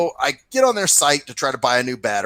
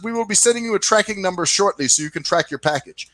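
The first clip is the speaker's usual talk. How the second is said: lightly mimicked rep in higher pitch; imitated service rep; 6 semitones higher than usual. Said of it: "she says".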